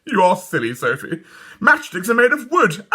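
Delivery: put-on high teasing girl; mocking little girl. A narrator's reading. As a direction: tease her like a know-all. Dawn voiced mocking.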